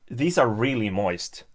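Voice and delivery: ordinary talk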